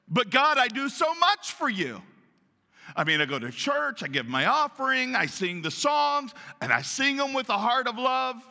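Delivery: high-pitched indignant protest to God; aggrieved complaint. Acted. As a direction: list your good deeds, building to exasperated disbelief. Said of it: "you ever said this?".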